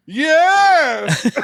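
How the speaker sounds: flat, high mock victim yes; a high, affectless yes; deadpan yes. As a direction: parody a wooden actress answering. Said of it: "her performance is so unmodulated".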